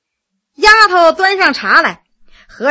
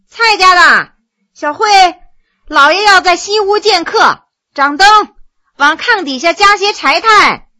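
louder, higher call to the servants outside; 5 semitones higher, 5 dB louder than usual. Acted. Wu shi calls the servants to light lamps, loud and high. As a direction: call across the courtyard to the maids. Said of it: "冲外边喊了一声".

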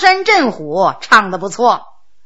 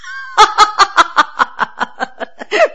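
a long laugh climbing higher; rising hearty laugh; 6 semitones higher than usual. Acted. Ninth brother laughing at his bewildered older brother, rising laugh. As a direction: laugh it up, mocking and amused.

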